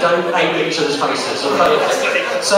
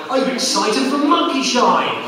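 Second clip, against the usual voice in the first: hype-up question; 7 semitones higher than usual. Shown as a demonstration. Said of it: "normally I'd say something like".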